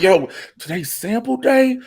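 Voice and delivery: high, eager mock sample hunter; mock excited. Friend mocking sample-day fans, high and eager. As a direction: hype up sample day, slowed on the question.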